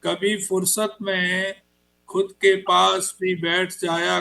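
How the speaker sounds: slow, measured recital with pauses between lines; unhurried Hindi poetry reading; poem recitation. Acted. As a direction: let each line land like a verse at a mushaira. Poet recites his poem.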